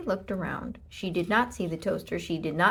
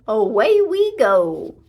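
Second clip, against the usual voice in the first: excited call; 2 semitones higher, 12 dB louder, slower than usual. Acted. Riding off on the pig.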